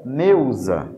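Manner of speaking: "neusa" with the S voiced as Z; demonstrating Z sound. Shown as a demonstration. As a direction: buzz the Z in "neusa". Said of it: "o som de Z".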